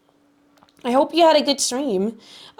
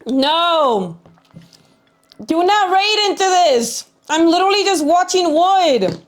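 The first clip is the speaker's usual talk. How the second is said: high, bright cute voice; squeaky anime girl protest; cute anime streamer; 4 semitones higher, slower than usual. Acted. Streamer reacts to an unwanted raid.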